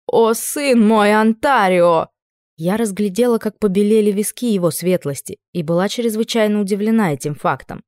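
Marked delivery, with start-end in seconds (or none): 0.1-2.1 theatrical exclamation. A narrator's reading. Duke's theatrical greeting to son.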